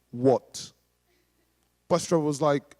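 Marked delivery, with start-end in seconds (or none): 0.1-0.7 put-on drunk man. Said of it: "very drunk as well".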